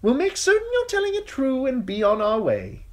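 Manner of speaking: high, loud knight's call. Acted. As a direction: call up to the gate. Sir Amory continues calling.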